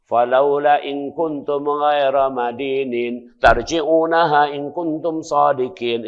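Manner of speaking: slow, chanted recitation of the verse; Quran recitation. Acted. Preacher reciting scripture to the congregation, slow chant. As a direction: draw out the Arabic verse slowly.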